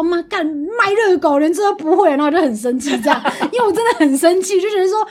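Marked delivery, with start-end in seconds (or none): 0.0-2.1 slow irritated grumble. Retold or imitated. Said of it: "就会觉得说".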